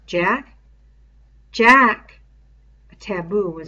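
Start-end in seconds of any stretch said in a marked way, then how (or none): 0.0-0.5 plainer voice with a questioning rise; Ralph, questioning. Acted. Ralph asking Piggy whether he means Jack, rising. 1.5-2.2 put-on louder, higher boyish voice, falling and final; Piggy, certain. Piggy confirming to Ralph that it is Jack, loud and sure.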